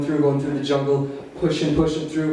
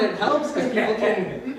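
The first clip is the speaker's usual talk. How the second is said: slowed down; 7 semitones higher, slower than usual. Shown as a demonstration. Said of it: "when I slow down".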